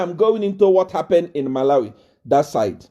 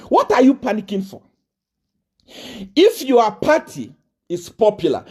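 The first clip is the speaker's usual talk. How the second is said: ordinary delivery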